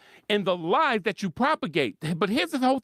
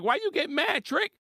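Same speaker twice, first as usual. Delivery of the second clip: higher, slow, incredulous; 7 semitones higher, slower than usual. Retold or imitated. Commentator retorting at Kate, slow and incredulous. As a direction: drag out each word in disbelief. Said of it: "I'm like".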